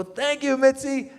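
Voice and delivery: high, squeaky burst of thanks; squeaky grateful thanks. Retold or imitated. Comic thanking Mitzi in a sudden high squeak. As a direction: gush your thanks up high and bright.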